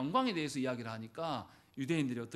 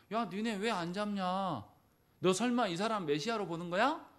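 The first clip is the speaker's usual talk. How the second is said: sarcastic jeer; 4 semitones higher than usual. Acted. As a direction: tease them with a sneering question. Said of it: "비꼬고 있는 거예요".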